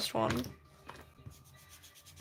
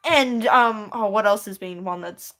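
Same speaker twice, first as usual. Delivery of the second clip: Mister Beast impression; 5 dB louder than usual. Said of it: "what Mister Beast sounds like".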